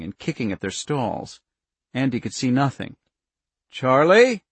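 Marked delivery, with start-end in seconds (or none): 3.7-4.4 calling out loudly into the dark; urgent call. A narrator's reading. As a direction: call her name, urgent and rising. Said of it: "His voice cracked and urgent".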